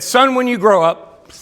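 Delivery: slow, lightly voiced father; a hint of a solemn father speaking to his son; quoting the father from the song lyrics; father's voice. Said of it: "He said".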